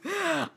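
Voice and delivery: quick stifled giggle; soft high giggle. Real, not acted. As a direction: giggle under your breath. Laughs before the reveal.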